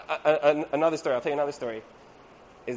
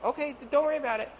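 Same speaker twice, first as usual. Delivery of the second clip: husband hiding panic; 8 semitones higher, faster than usual. Retold or imitated. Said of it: "And he's like".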